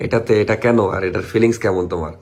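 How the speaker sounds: slightly hoarse, rough throat; talking through a hoarse throat. Real, not acted. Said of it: "আমার একটু গলা বসে গেছে".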